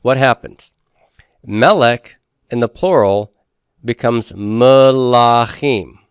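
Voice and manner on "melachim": "melachim" drawn out slowly, stress on the last syllable "chim"; slow teaching "melachim" with end stress; stress on final syllable. Shown as a demonstration. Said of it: "It's at the end".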